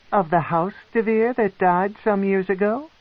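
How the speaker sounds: high, intrigued noblewoman; a proud matron, curious and cold; matron's voice. A narrator's reading. The matron questions the captive, high and probing.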